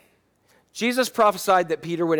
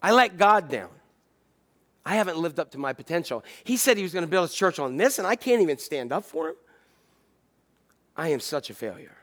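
despairing Peter. Retold or imitated. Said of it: "He probably thought".

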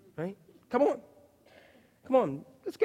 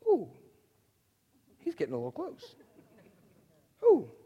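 soft nervous laughing ooh; understated dad panic; mock worried; 6 semitones higher, 7 dB quieter than usual. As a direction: fake alarm at losing. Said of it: "and I go".

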